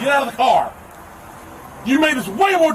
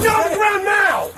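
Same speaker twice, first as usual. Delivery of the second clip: shouted order; 6 semitones higher than usual. Real, not acted. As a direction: bark it at full volume. Officer yelling orders.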